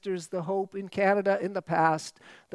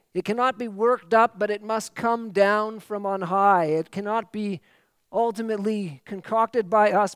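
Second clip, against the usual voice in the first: louder, ringing sermon delivery; full-force preaching; 4 dB louder than usual. Acted. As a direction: proclaim it from the pulpit.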